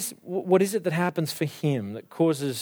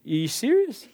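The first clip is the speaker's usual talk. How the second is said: incredulous; 3 semitones higher than usual. Acted. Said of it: "Gideon's response is".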